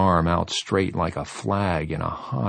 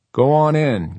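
calling out; 7 semitones higher, 6 dB louder than usual. A narrator's reading. Sending onlookers away.

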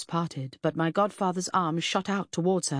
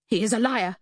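indignant, higher and louder accusation; spat out; 6 semitones higher, 5 dB louder than usual. A narrator's reading. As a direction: spit out the accusation. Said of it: "she spat".

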